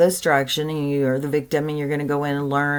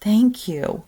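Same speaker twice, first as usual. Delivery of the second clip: higher-pitched, lightly voiced delighted child; happy little girl; 6 semitones higher, slower than usual. Little girl thanking mom for promising to take her back, happy. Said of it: "she's so happy".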